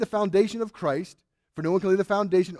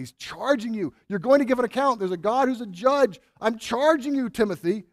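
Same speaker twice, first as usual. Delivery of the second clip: insistent, higher-pitched urging; emphatic charge; 4 semitones higher, 3 dB louder than usual. Retold or imitated. Preacher voicing Paul's charge to Timothy, emphatic and urgent. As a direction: press the charge home, pitch lifted. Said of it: "he can't say it more emphatically".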